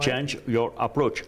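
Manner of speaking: English said slowly and deliberately, French accent; slow English phrase. Shown as a demonstration. Teaching the motto to viewers, slow deliberate English. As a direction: spell out Change your approach slowly. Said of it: "Facile à comprendre".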